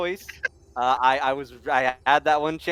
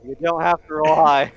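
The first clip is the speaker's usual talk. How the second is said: gruff villain voice; 2 semitones higher, 7 dB louder than usual. Acted. GM voices NPC taunt.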